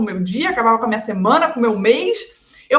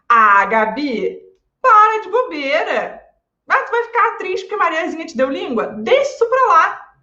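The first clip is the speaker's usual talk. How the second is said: higher, brushing-it-off mother; dismissive mom; 4 semitones higher than usual. Pretend. Mother telling the daughter to drop it, dismissive. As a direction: wave the child's sadness away, pitched up. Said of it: "minha mãe vira pra mim e fala assim".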